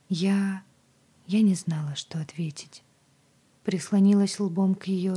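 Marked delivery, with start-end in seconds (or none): none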